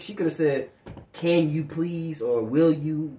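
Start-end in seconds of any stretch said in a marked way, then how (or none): 1.1-3.2 slow, measured polite asking; mildly polite demonstration; polite request. Shown as a demonstration. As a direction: model a courteous request, lower and unhurried. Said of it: "in that tone of voice".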